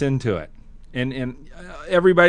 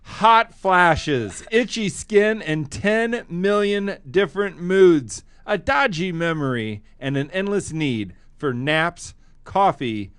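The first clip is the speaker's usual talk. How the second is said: slow, playful read-aloud with pauses; comic reading aloud; slower than usual. Shown as a demonstration. Host reading a menopause joke aloud, slowly and playfully. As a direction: read it like a funny bedtime tale. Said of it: "I'll read it".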